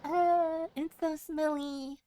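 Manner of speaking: voicing the smelly emote with mock disgust. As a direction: wrinkle your nose at the stink.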